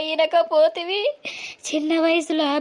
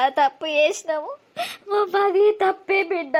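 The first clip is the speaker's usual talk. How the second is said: crying apology. Acted. Mother weeps over mistake.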